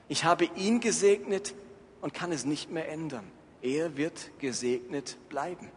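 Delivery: lebhaft gestaltete Bibellesung mit verteilten Stimmen; dramatische Schriftlesung. Acted. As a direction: die Geschichte packend vortragen, Esaus Flehen gesteigert. Dramatic reading of Bible text. (Prediger liest der Gemeinde Genesis 27 dramatisch vor)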